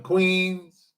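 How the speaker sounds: ordinary talk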